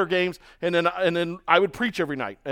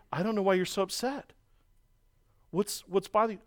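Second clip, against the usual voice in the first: softer, mock innocent question; feigned innocence; 7 dB quieter than usual. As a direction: play dumb as if nothing happened. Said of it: "this is the game he played".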